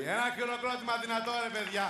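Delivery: high emcee call; rally the room for applause. Real, not acted. MC calls for applause.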